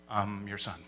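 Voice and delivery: meek little reply. Retold or imitated. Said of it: "and I'd be like".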